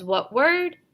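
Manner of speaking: brisk teacher question; teacher prompt. Shown as a demonstration. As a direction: prompt the student to blend. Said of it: "Teacher says".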